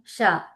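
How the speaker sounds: isolated palatal షా, falling; flat-tongued sha. Shown as a demonstration. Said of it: "flat గా పెట్టండి".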